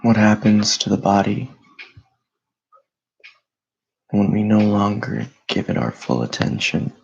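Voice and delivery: calm, unhurried meditation voice with long pauses; guided meditation. Acted. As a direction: guide listeners gently into stillness, leaving space between phrases.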